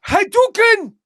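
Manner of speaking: high shouted game-move cry; Street Fighter shout. Pretend.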